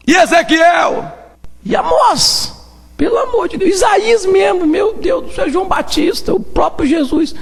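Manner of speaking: high, ringing list of prophets; excited exclaiming. Acted. Preacher listing prophets to refute the crowd, high and exclaiming. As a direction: call each name out high in disbelief.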